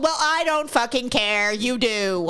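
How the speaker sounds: slow, emphatic mock rebuke; exasperated retort. Fed-up reply to the DMV complainer, exasperated. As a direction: shut the whiner down. Clerk's retort to whining customer.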